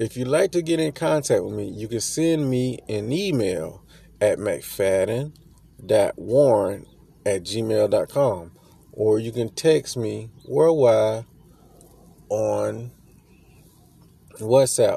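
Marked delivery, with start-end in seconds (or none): 0.0-8.5 slowed-down, careful, deliberate reading. Repeating their contact details for listeners, saying it slower. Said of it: "Let me say that again slower".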